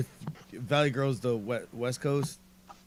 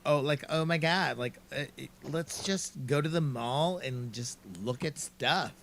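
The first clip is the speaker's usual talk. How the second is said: put-on Valley Girl voice; 5 dB quieter than usual. Shown as a demonstration. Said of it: "perfected the whole Valley Girl".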